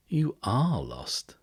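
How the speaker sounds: high, very slow, drawn-out verdict; eerie certainty. Acted. Strange man sizes up strangers.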